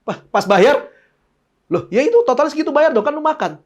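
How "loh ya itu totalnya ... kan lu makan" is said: mock demanding friend.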